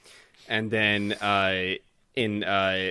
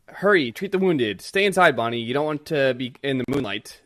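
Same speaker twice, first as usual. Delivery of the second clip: urgent orders; 3 semitones higher, 5 dB louder than usual. Retold or imitated. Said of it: "at Kuma's church".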